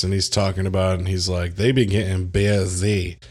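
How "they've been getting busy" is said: exaggerated, stretched-out "busy"; mimicked movie interviewee. Friend quotes a gay man interviewed in the credits, playful mimicry. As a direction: mimic his catchphrase with relish. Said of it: "you can mimic his voice perfectly".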